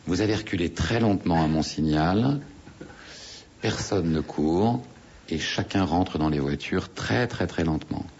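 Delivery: slow, measured instructions with pauses; composed guide. Retold or imitated. Guide warning diners near two lions, calmly and slowly. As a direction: imitate a calm guide, drawing out the words. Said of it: "avec une voix très posée".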